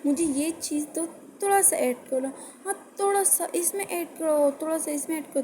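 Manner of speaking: exaggerated hyperbole request; overstated request. Shown as a demonstration. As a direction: overdo it, repeating each demand. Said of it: "अगर मैं hyperbole में बोलूँ".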